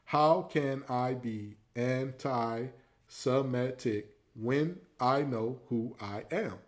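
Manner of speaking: slow deliberate reading; counted out. Shown as a demonstration. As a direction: spell out each syllable. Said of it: "let's count the syllables here".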